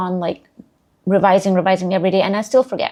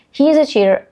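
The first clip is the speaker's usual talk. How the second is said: indignant; 6 semitones higher, 4 dB louder than usual. Acted. Sample sentence.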